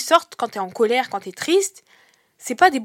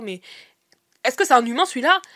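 incredulous; 2 semitones higher, 4 dB louder than usual. Retold or imitated. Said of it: "vous allez vous dire".

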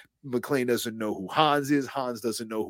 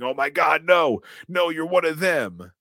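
higher, louder, frightened pleading in a fake American accent; 8 semitones higher, 6 dB louder than usual. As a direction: cower and beg in a put-on American accent. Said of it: "Americanized accent of his".

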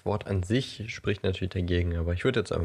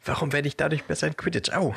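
high whiny complaint; 8 semitones higher, faster than usual. Pretend. Harry complaining while pelted.

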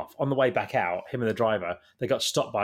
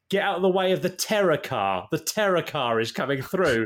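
retold megaphone shout; 5 semitones higher than usual. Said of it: "they're shouting to traffic".

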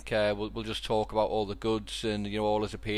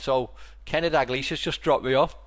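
dead matter of fact; 2 semitones higher than usual. Retold or imitated. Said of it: "just like dead matter of fact".

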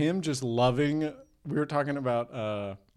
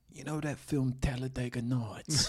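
put-on British accent; lightly voiced British star; Jason Statham. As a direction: pitch it as an eager British film fan. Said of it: "which I can't quite tap into".

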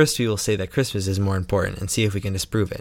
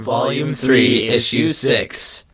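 slow, drawn-out creepy announcement; put-on creepy announcer; 3 dB louder, slower than usual. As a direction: stretch it out to sound creepy. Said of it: "Does that sound creepy?".

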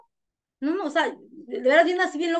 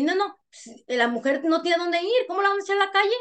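imitated protest, pitched higher; protesting on her behalf; 5 semitones higher than usual. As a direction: plead her case in a raised-pitch retold voice. Imita a Jenny protestando por ella. (imitando una protesta, con voz más aguda)

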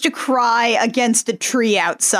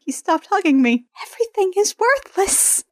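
higher, hammed-up wail of despair; mock despair; 8 semitones higher than usual. Host mocking the heroine's sulk, in hammed-up despair. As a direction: overplay her sorrow, mockingly. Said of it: "Dance is like".

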